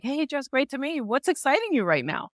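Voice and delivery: bright upbeat hello with a lift on hey; energetic greeting. Shown as a demonstration. Networker greeting Jess at a pub, energetic. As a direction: greet her like you're thrilled to meet. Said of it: "we started in an energetic way".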